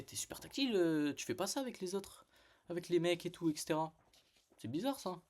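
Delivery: high, mock-incredulous accusation. Quoting his jab at the handsy manager, high and mocking. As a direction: lift it up in mock disbelief.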